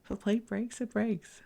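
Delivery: carefree gusto. Retold or imitated. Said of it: "This resilient spirit that says".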